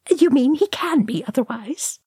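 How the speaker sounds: high mocking snigger. A narrator's reading. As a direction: snicker the question cheekily. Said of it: "sniggered Oin".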